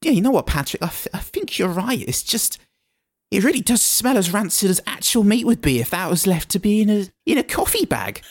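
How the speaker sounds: put-on slipping Birmingham accent. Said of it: "I'm from Birmingham now".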